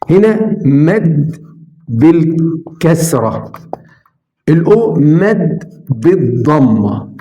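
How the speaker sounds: "مد" and "بالكسرة" stretched slowly; drawn-out demonstration. Shown as a demonstration. Teacher explaining long vowels, "مد بالكسرة" stretched out. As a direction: draw out "مد بالكسرة" word by word. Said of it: "الأصوات الطويلة من اسمها بمد".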